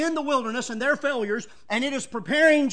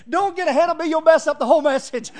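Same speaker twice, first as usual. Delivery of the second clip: playful scolding; 4 semitones higher, 6 dB louder, faster than usual. Real, not acted. Teasing congregation who answered early.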